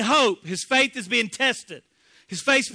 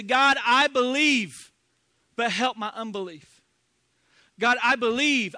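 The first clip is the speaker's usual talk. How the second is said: earnest prayer; 3 dB louder than usual. Acted. Prayer voiced slowly.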